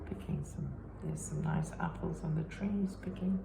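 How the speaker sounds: lively storybook reading voice; reading to children. A narrator's reading. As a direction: read it to little ones with big expression. Reading picture book to children.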